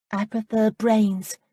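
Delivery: put-on slow, knowing reply from a young girl; young woman's voice. Amanda's voice, narrated scene.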